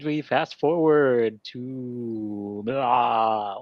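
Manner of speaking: a lightly voiced Dracula telling the plot; a mock Dracula, drawn out, with blah; Dracula accent. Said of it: "I'm just gonna do a Dracula accent".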